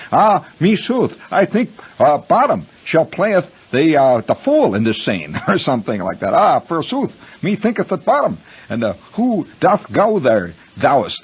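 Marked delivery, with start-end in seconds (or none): 0.1-5.4 slow, high mock-Shakespearean declaiming; lightly hammed-up recital of a half-remembered line; stage actor's line. Storyteller imitating his classmate's opening line, slow mock-theatrical delivery. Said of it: "He was supposed to say". 6.3-11.2 hammed-up mock-Shakespearean, starting high; stage actor's line. Storyteller imitating his classmate's garbled opening line, mock-theatrical delivery. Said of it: "He was supposed to say".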